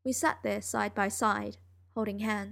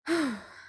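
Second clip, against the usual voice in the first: long exhaling sigh; drained sigh; 5 semitones higher than usual. Acted. Narrator recovering from a draining talk, heavy sigh. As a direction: let out a big breath of relief.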